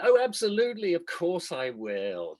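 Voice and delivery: mock-gracious, eager yes; effusive acceptance. Acted colleague eagerly accepts.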